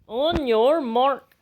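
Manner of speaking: builds from slow and loud to a high shouted go; race start call. Acted. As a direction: count off the race, rising to the launch. Trying out catchphrases.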